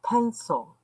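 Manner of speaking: words pushed out through a burp. Real, not acted. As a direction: burp while saying it. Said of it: "I'm burping".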